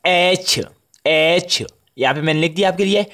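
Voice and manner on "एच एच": "एच" stretched long; English "एच", held longer; lengthened H. Shown as a demonstration. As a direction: draw out "एच" slowly. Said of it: "उसे ज़रा लंबा करते हैं".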